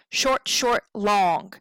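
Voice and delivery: SHORT SHORT as brief beats, LONG lengthened. Shown as a demonstration. Teacher naming the pattern, SHORT SHORT LONG in anapestic rhythm. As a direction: tap out "short, short," then stretch "long". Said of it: "two unstressed, one stressed".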